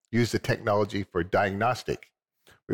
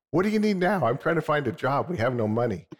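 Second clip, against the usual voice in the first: exasperated wife; 5 semitones higher than usual. Retold or imitated. Guest quoting his wife's exasperated demand, higher. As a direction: play the fed-up wife needing a job.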